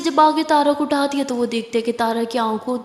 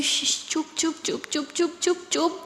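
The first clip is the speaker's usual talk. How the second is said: soft breathy shh, chup, chup; very soft repeated hush to calm a crying friend; hushing softly; 3 semitones higher, 8 dB quieter than usual. Acted. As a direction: soothe her quiet, barely voiced. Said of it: "आंसू पोंछते हुए कहती".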